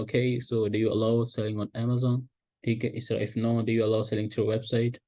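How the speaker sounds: slow, light American accent on the question. Shown as a demonstration. Teacher demos an American-tinged call to a supplier. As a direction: ease into a slight American lilt. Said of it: "थोड़ा बहुत आपने accent change करना है".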